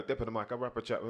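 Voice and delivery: Cockney-tinged patois rap imitation; imitated patois chat. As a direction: roll the tongue like a Yardie MC. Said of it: "He's rolling his tongue as well".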